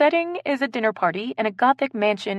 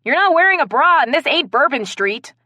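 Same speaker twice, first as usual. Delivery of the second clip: high, loud protest; scandalised; 8 semitones higher, 6 dB louder than usual. Acted. Player scolds topless friend mid-improv, scandalised. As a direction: exclaim in loud disbelief.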